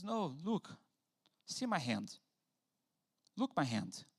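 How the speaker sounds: calm them gently; reassuring Jesus. Retold or imitated. Risen Jesus calmly showing disciples his hand. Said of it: "He just says".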